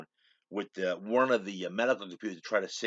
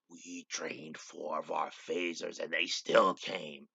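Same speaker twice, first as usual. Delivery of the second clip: retold rant; 4 semitones lower, 7 dB quieter than usual. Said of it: "he's going through this rant".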